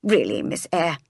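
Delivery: understated reproach; scolding. Acted. Miss Abbott reproving Jane, mildly scolding. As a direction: lightly scold the child. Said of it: "both started scolding me".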